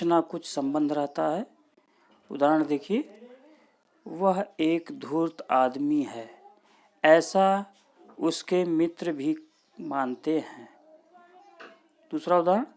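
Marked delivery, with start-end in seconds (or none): 4.1-10.7 slow example, pause between है and ऐसा; half pause after है. Shown as a demonstration. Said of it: "अल्प विराम से कुछ अधिक ठहरते हैं". (है के बाद अर्ध विराम, ऐसा पर ज़ोर)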